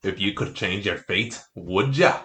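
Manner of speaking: put-on Scottish lilt; Scottish accent. Shown as a demonstration. Friend quoting Brave on request, Scottish accent. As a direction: quote the film in Scottish. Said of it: "Can you do, like, Scottish?".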